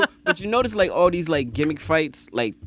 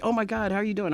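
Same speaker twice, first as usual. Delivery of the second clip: put-on British accent; 7 semitones higher, faster than usual. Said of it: "talked to girls with a British accent".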